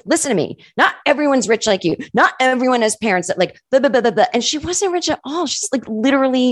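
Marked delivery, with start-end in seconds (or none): 0.0-4.3 raised, exasperated scolding; indignant retort. Retold or imitated. Scolding a friend over money, raised and exasperated. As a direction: lecture a friend who's complaining. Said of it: "And I was like".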